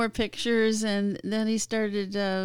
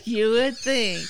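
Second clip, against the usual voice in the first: laughing; 4 semitones higher, 6 dB louder than usual. Real, not acted. Laughing at her own irony.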